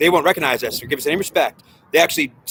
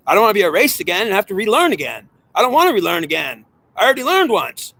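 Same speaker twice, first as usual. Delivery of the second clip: frustrated pleading soul; 3 semitones higher than usual. Acted. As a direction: voice of a tormented soul pleading to escape rebirth. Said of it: "suffering soul that is frustrated".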